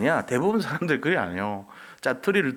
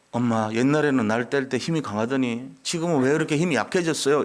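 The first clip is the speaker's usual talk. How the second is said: ordinary talk, nothing marked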